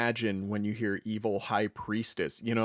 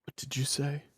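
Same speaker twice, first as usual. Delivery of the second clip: monk's suspicious question; 4 semitones higher, 3 dB quieter than usual. Acted. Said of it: "and he says".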